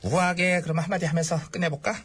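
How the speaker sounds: low, composed, self-satisfied voice; self-consciously elegant. Acted. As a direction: settle into dignified elegance. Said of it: "우아해야지".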